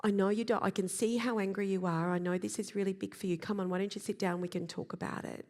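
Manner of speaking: low monotone trying to sound calm. Shown as a demonstration. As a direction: press it flat and low like a growl held in. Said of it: "we go low monotone".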